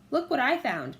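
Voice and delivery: loud excited call. A narrator's reading. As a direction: call her over, eager. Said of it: "Jack called".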